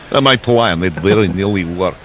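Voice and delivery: hammed-up Russian accent. Shown as a demonstration. Commentator redoing the line for colleagues, hammed-up Russian accent. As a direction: put on a thicker Russian accent. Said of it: "There you go, that's better".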